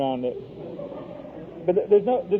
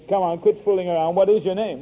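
a touch of exasperation, firmly put; mildly impatient policeman. Retold or imitated. Policeman doubts the prince's claim, mildly impatient. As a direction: retell an officer losing patience. Acted policeman losing patience with boy.

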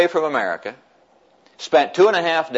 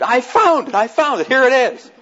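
much higher, louder cries of discovery; excited shout; 11 semitones higher, 3 dB louder than usual. Retold or imitated. Grandson finding granddad's name in Napoleon's tax records, excited shout. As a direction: shout it out like you just struck gold. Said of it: "I screamed".

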